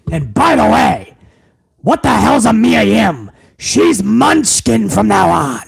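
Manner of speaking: lightly voiced scornful boss; a slow dismissive afterthought in a put-on boss voice; Vince McMahon aside. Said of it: "I will give you a little bit of Vince".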